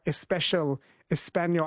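"especial, Espanol" each begun with an added E; Spanish-style leading vowel. Shown as a demonstration. Host comparing Spanish speakers, "especial" and "Espanol" opened on E. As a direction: put an "eh" before the S in "especial" and "Espanol". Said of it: "similar with the Spanish".

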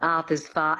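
"Arthur's fa-" with the A falling back into the throat; Australian A. Shown as a demonstration. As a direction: lips and mouth barely moving on "Arthur's fa-", R dropped. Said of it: "sound falling back into the throat".

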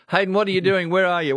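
high, loud, delighted hello to a caller; excited greeting. Real, not acted. Host greets caller on air.

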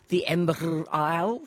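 put-on a weak stab at an Irish accent; bad Irish accent. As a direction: throw in a hammy Irish lilt. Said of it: "That was a really bad Irish accent".

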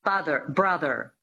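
"Father, brother" with both final Rs sounded; American Rs ending "Father" and "brother"; American rhotic R. Shown as a demonstration. Coach drills American words, rhotic "Father, brother". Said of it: "So that's the American".

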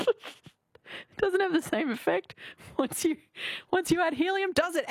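high-pitched giggly talk; laughing through the words. Real, not acted. Host laughing after helium clip.

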